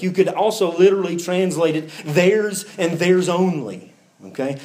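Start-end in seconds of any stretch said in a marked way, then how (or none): 2.0-3.9 slow, deliberate stress on "theirs" in "theirs and theirs only"; emphatic. Shown as a demonstration. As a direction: weigh each "theirs", drawing the phrase out slowly. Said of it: "is very emphatic".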